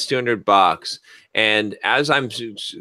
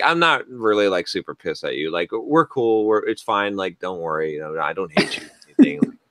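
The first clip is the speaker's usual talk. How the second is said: cooled off. Retold or imitated. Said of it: "I cooled off a little bit".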